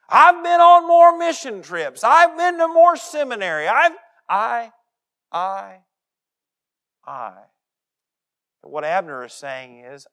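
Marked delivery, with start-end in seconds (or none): 0.1-7.5 put-on high, loud, puffed-up old churchgoer boasting; pompous church elder. Preacher mocking a boastful church member, loud and high. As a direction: ham up the self-important church member. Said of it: "That's how it sounds".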